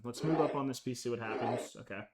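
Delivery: raspy throat, smoker's cough. Real, not acted. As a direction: talk through a nagging smoker's cough. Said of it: "smoker's cough going on right now".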